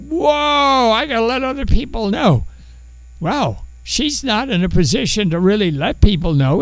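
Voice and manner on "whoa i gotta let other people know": high, fast gasp of wonder; excited woman. Retold or imitated. The Samaritan woman at the well rushes to tell others, excited. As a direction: blurt it out, eager to run and tell. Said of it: "You go".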